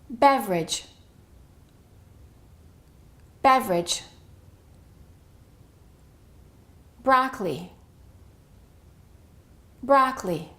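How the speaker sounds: each word from 'Average' to 'vegetable' said alone, unstressed middle vowel dropped, falling tune; disappearing-syllable drill. Shown as a demonstration. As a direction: model 'Broccoli' as brok-lee, 'Family' as fam-lee, 'Interest' as in-trist, pausing after each. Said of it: "more words that follow this pattern".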